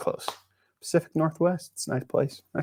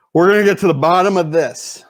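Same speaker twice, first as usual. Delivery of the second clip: mock determination; 3 semitones higher, 4 dB louder than usual. Repeats the line as mock declaration.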